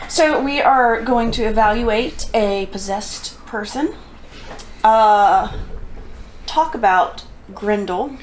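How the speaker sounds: slow, polite service-desk reading; customer service voice. Pretend. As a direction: read it like a call center agent. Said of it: "Why are you doing customer service voice?".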